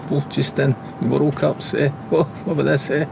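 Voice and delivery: high, mocking teasing, laughing at the new boy. Kit man Neilly mocking a player before the dressing room, high mocking. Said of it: "he's pointing at me, going".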